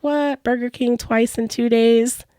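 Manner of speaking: delighted surprise. Retold or imitated. Husband thrilled at Burger King again, surprised. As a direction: lift the pitch like happy news. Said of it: "He's like".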